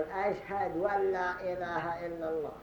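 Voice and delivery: أشهد with a silent dal, then ولا in place of أن لا; waw after ashhad. Shown as a demonstration. Teacher imitates the mispronounced shahada with an extra waw. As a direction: stress the added waw in ولا. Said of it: "فيسكن الدال من أشهد ويقلب ضمتها واوا".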